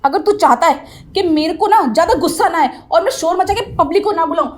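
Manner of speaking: heated ultimatum; angry warning. Acted. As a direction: warn him with mounting anger. Teacher threatens to raise a scene.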